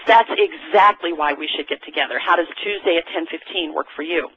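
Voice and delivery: steady, sure delivery of the line; confident. Shown as a demonstration. Sales coach showing the confident way to ask. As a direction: say it like you mean it. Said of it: "You've got to say this with confidence".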